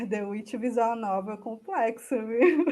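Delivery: chuckling through the joke; laughing. Real, not acted. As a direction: let the laugh break into the words. Joking about a silly visual novel.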